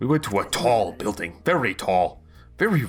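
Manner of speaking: talking dog voice. Voicing a dog that speaks telepathically to a player: dog voice. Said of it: "you gotta do a dog voice".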